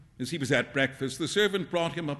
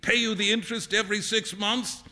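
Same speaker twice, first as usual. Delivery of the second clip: higher, lively teasing voice; Alan, amused teasing friend; 7 semitones higher than usual. Acted. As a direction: tease your friend in a pitched-up, animated voice.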